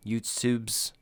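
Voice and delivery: hushed, voiceless echo of "YouTubes"; whispered. Real, not acted. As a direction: whisper "YouTubes" like a playful aside. Repeats the word for comic effect.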